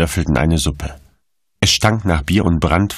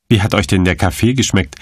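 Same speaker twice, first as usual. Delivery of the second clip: spitz; 3 semitones higher than usual. Acted. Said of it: "fragte er spitz".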